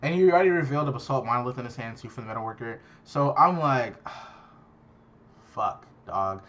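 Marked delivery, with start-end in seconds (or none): 4.1-6.4 breathy, sighing curse under the breath, much softer; defeated sigh and soft curse. Retold or imitated. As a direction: let the air out in a defeated sigh, then curse. Exasperated reaction to bad draw.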